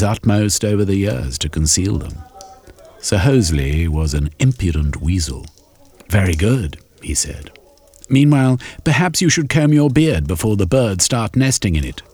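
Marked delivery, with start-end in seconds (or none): 6.1-12.0 Sir Hosley's jibe. Acted. Sir Hosley mocks Shermy's beard, high sly jibe. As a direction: sneer with a smirk.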